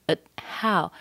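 "at how" with schwa and unreleased t; held T. Shown as a demonstration. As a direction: keep the t of "at" inside, then breathe the h. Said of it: "Schwa held T and then the H".

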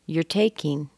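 "You're" said as YER before "taking"; reduced form of your. Shown as a demonstration. Teacher shows it in the phrase, reduced YER. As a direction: pass from a weak "You're" onto TAKE. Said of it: "we could say you're".

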